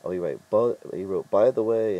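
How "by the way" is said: loud, higher, emphatic quote; written in capitals. Retold or imitated. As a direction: punch it out like all-caps text. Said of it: "in capitals".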